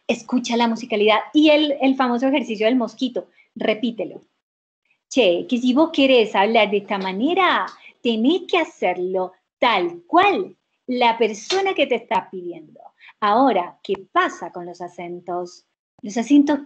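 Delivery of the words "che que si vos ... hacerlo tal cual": light rioplatense voseo, Argentine lilt; Argentine accent. Shown as a demonstration. Voice coach shows students a light Argentine accent. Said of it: "acento argentino para Latam".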